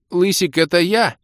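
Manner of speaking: high, loud squeak; Док, yelping. A narrator's reading. Док butts in to the demoness, yelping high. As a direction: pipe up in a very high eager voice. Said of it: "вякнул Док".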